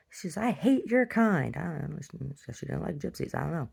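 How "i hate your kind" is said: high, slow, hateful mock snarl. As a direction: spit it out slowly like a bigoted owner. Owner throws her out.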